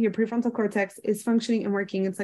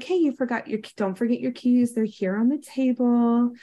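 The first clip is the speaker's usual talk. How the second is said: kind reminder; 3 semitones higher than usual. Retold or imitated. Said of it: "the kind person or the kind friend".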